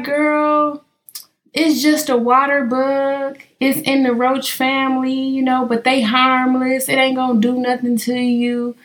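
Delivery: a hint of a calm mother, slow; easygoing mom explaining. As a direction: reassure her daughter, unbothered. Mom voiced in story.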